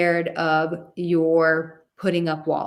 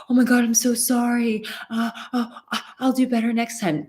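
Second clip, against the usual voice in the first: flustered apology; 5 semitones higher, faster than usual. Retold or imitated. Nervous man apologising to his date, flustered and high. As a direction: fall over yourself saying sorry. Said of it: "all flustered and go".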